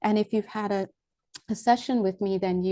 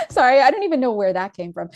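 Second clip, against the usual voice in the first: louder, laughing through the words; real giddy laughter; laughing apology; 3 semitones higher, 6 dB louder than usual. Real, not acted. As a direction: giggle while you apologise. Giggling apology after a squeal.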